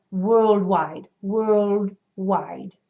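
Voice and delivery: British WORLDWIDE, closed jaw and rounded lips; British accent. Shown as a demonstration. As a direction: imitate British rounded, forward vowels. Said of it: "much more closed jaw, rounded lips".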